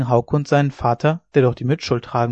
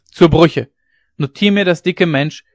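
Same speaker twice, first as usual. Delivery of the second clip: louder, bellowing a fine; bear-voiced shout; 4 semitones higher, 6 dB louder than usual. A narrator's reading. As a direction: roar like an angry old bear. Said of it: "Bärenstimme".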